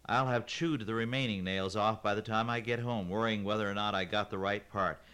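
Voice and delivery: exasperated rant. Acted. Kaylin ranting at the parts man about her nails. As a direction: build the grievance, exasperated.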